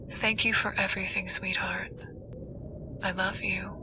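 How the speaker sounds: very soft, tender near-whisper; loving voice. A narrator's reading. Stepdad's last voicemail to a stepchild, hushed and loving. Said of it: "left in my stepdad's perfect, loving voice".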